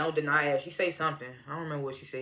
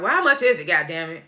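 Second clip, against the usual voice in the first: exasperated demand; 5 dB louder than usual. Retold or imitated. Viewer reacting to Joan withholding the amount, mock exasperation. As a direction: demand the answer in playful exasperation.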